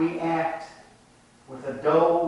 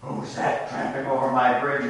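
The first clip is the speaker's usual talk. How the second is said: roaring troll; 4 dB louder than usual. Acted. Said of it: "roared the troll".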